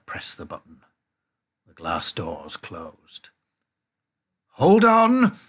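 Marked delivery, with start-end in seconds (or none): 4.5-5.4 loud, high warning shout; high, forceful call; urgent cry. A narrator's reading. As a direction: yell it out to brace everyone. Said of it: "cried Mister Wonka".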